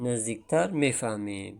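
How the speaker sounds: usual speaking voice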